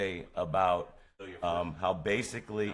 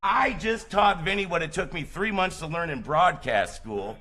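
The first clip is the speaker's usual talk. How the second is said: high, loud, showman proclamation; triumphant on-air boast to the listeners; triumphant announcer; 10 semitones higher, 5 dB louder than usual. Real, not acted. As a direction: crow about the win to the audience.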